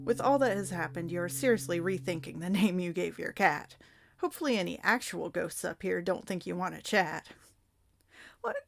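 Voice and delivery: usual speaking voice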